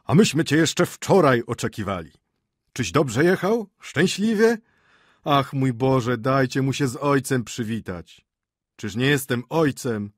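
high, loud, flustered father's voice; flustered shout. Acted. Father bursting into the hall to greet his son, flustered shout. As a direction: fuss over him in an anxious rush. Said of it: "krzyknął wystraszonym głosem".

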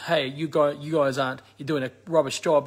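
mock scolding politician. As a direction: nag them like an impatient opposition party. One bird wing scolds other.

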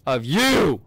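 slow angry scold. Real, not acted. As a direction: lay it out word by word, fed up. Fed up with enemy.

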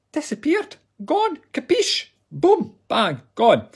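very high comic exclamations; hammed-up outrage over the missing button; mock-dramatic squeal. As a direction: squeal it like a cartoon.

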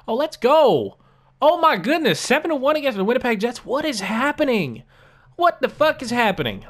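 high, loud jubilant yelling; cheering a blowout win; ecstatic. Real, not acted. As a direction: shout with joy at the scoreboard. Huge win shows on screen.

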